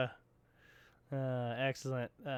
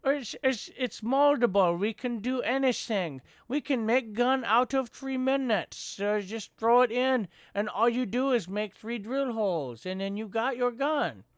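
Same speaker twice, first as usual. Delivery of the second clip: high-pitched mock sales pitch; imitated eager inventor; 8 semitones higher, 5 dB louder than usual. Inventor selling a new product called plastic, excited mock pitch.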